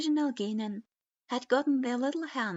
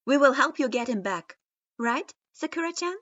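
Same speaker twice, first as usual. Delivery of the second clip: resolute; 4 semitones higher, 9 dB louder than usual. A narrator's reading. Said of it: "Naruto declared resolutely".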